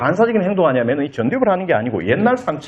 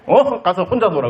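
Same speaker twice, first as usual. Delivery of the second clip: acted irritated brush-off, higher pitch at first; mock a parent shooing the child away; 3 semitones higher than usual. Busy angry parent to child wanting attention, mildly irritated. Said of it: "화가 나서".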